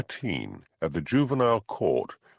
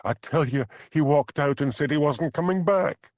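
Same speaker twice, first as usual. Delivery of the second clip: enraged; 8 semitones higher, 3 dB louder than usual. A narrator's reading. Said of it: "her face now ugly with rage".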